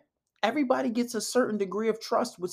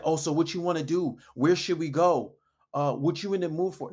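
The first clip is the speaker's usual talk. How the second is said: indecisive asking; 2 semitones lower than usual. Shown as a demonstration. Man asking a girl out without leading, mildly indecisive. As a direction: hand every decision over to her. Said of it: "don't be like".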